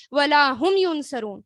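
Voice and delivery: slow, ہم pushed out in ولا ہم ینصرون; slow down and hit ہم; stress on ہم. Shown as a demonstration. Teacher shows the sentence pattern, slow and stressed. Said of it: "جب اس طرح کا sentence آتا ہے".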